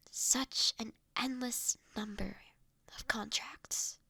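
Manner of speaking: soft unvoiced whisper with a sigh, slowing down. A stranger whispering sympathy to the automaton about its workload. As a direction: breathe it, lean in close.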